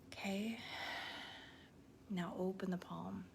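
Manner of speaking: slightly softened, unhurried guiding voice with long pauses; lightly hushed breathwork instructor; guided breathing exercise. Real, not acted. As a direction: gently talk them through each breath.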